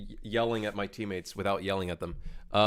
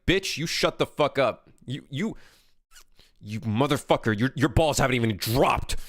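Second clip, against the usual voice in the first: mock-outraged comeback, building louder; indignant retort; 2 semitones higher, 3 dB louder than usual. Snapping back at a teenage gamer in voice chat, mock-indignant. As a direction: fire back in mock outrage, rising in force.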